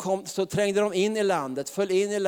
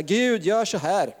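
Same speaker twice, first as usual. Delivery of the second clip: mock bossy prayer; 4 semitones higher than usual. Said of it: "Innan tror jag de ropade så här".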